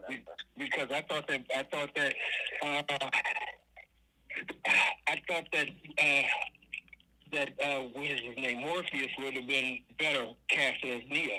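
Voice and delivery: slightly out of breath while shoveling snow. Real, not acted. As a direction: talk between shovel strokes. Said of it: "you guys hear me shoveling snow?".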